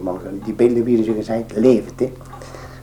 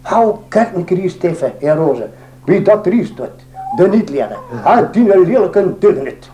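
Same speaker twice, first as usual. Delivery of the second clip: gossiping women; 6 semitones higher than usual. Retold or imitated. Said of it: "En ze zeiden".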